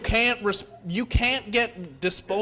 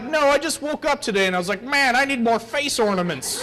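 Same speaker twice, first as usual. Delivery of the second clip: sarcastic retort; 4 semitones higher than usual. Pretend.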